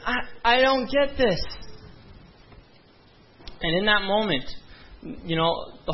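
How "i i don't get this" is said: high, bewildered plea, half-crying; pleading with God, lost and tearful; imitated tearful confusion. A crying young man begs God to explain his breakup. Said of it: "and I'm crying".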